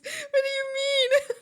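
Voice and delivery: high, slow, drawn-out mock outrage; hammed-up indignant what do you mean. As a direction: stretch it out in fake shock. Repeated louder, drawn out.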